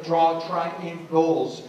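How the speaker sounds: "triangles" drawn out slowly for emphasis; stress on triangles. Shown as a demonstration. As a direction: stretch out the word "triangles". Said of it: "I put emphasis on a word".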